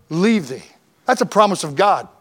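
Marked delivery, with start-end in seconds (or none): 0.1-0.6 every never hit hard and slow; stressed nevers. Shown as a demonstration. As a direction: hammer each never, I will never, never, never, never, never leave thee. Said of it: "Let me read it right".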